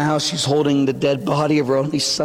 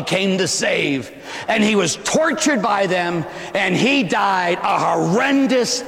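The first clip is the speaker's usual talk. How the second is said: fiery preaching; 3 semitones higher than usual. Real, not acted. Preaching at full force.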